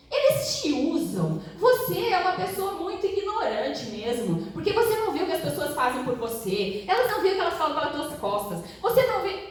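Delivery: high, scornful imitation of the boss; a mocking put-down from her boss. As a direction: sneer it out like a cruel boss.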